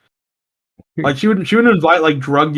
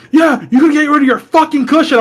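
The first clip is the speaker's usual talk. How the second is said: higher, mock angry aunt; mock aunt yelling; 9 semitones higher than usual. Aunt yelling at him about the mattress, higher mock anger. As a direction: snap it like the nagging aunt.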